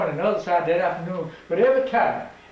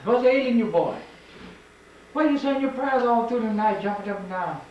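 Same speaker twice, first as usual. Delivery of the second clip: father yelling; 4 semitones higher than usual. Retold or imitated. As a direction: call the boy out like a worried papa. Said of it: "he yelling in there".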